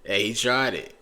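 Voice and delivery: loud laughing exclamation. Real, not acted.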